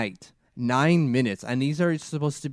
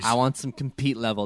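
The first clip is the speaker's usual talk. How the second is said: put-on New York accent. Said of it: "That's my best New York accent right there".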